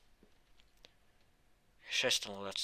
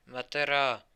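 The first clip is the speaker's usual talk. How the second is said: defiant yell; 3 semitones higher, 7 dB louder than usual. Acted. Marshall shouts he is not done yet. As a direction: roar it like a battle oath. Battle cry repeated.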